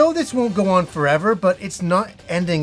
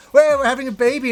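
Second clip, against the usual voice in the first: excited announcement; 7 semitones higher than usual. Retold or imitated. Announcing baby with Kim.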